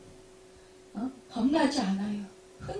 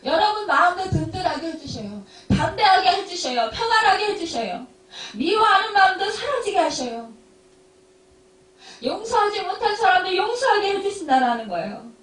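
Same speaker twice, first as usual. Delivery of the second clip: raised-pitch, insistent sermon delivery; fervent preaching; 8 semitones higher, 5 dB louder than usual. Real, not acted. Pastor assuring the congregation of God's help, fervent preaching. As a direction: press each promise on the congregation.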